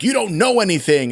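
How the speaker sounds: a touch of indignant temper; mock freak-out. Imagined villain freaking out on his love interest, mildly indignant. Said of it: "maybe he freaks out".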